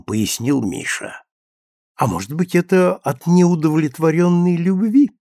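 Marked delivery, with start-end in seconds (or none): 2.0-5.1 sarcastic jab. A narrator's reading. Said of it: "съязвила Женя".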